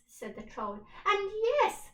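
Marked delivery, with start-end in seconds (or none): 1.1-1.9 louder, higher cheer; shouting. Acted. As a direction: shout it together. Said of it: "shouted the pirates".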